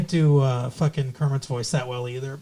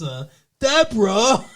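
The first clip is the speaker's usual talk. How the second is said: retry at Ray; 5 semitones higher, slower than usual. Retold or imitated. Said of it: "No, that's, that's".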